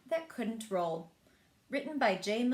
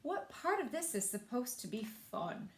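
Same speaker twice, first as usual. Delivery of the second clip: grumpy Ebert; 2 semitones higher, 3 dB quieter than usual. Acted. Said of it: "says Grumpy Ebert".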